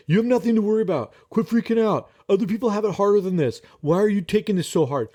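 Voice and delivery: mock impatient lecture to yourself; dismissive self-talk. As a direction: rattle it off like a dismissive inner critic. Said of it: "the conversation that we typically say to ourselves".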